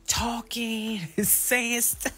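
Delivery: high squealing laugh through the words; giggling, then a burst of high laughter. Real, not acted. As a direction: crack up mid-sentence. Laughing remembering the prank.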